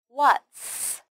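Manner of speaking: "What's" ending on a long, hissed S; clear final S. Shown as a demonstration. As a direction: finish "What's" with a distinct sss. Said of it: "don't forget the final s sound".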